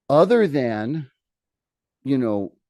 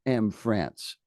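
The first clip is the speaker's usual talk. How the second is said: royal decree; 3 semitones higher, slower than usual. Retold or imitated. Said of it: "he said".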